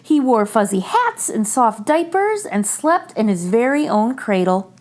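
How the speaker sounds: put-on gentle read-aloud for children; story narration. A narrator's reading. Reader sharing a picture book with children, gentle. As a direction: read it like bedtime story time.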